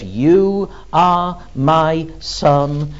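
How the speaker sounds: very slow, deliberate divine voice; slow, weighty words of God. Acted. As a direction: stretch each word out, God to the king. God speaking to the Messiah.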